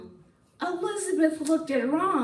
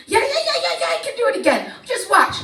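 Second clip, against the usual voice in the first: fast, eager yeahs; eager boasting; 9 semitones higher, 4 dB louder, faster than usual. Acted. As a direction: show off, can't wait to prove it. Boastful dragon eager to show off.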